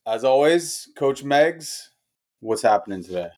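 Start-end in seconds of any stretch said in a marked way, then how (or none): 0.1-1.9 podcast host intro. Acted. Host welcomes podcast listeners and coach, upbeat show intro.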